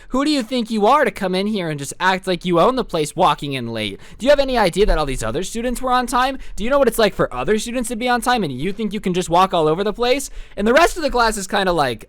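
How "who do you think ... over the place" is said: indignant substitute telling off a student; mildly acted reprimand; mock scolding. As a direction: rattle off a teacherly telling-off.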